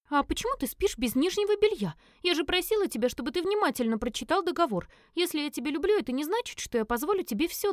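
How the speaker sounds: high-voiced indignant girl; Элис scolding. A narrator's reading. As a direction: scold him like an offended young woman.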